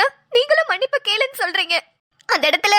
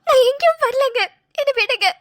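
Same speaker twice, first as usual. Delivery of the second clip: tearful refusal through sobs; crying; 4 semitones higher than usual. Real, not acted. Wife crying at her husband, refusing to come. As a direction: push him away while crying. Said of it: "அழாத".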